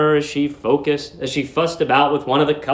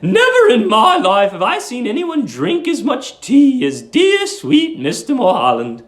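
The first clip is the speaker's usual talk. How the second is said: put-on high, fussy voice of a sweet old landlady; 10 semitones higher, 5 dB louder than usual. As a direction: coo it like a doting old landlady.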